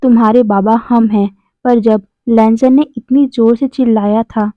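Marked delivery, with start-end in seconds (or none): 0.0-1.4 hammed-up angry cry of a father; lightly voiced father yelling at the boy; mock shout. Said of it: "एकदम जोर से चिल्लाकर बोलता है".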